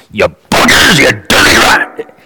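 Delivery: mock condemnation. Prophet scolding the people, mock condemning snarl. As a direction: spit out the insult, half in jest. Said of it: "not in a condemnatory fashion".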